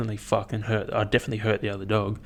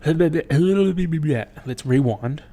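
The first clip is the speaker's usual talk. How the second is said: slow rewind; 5 semitones higher, 5 dB louder, much slower than usual. Pretend. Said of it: "take it slow".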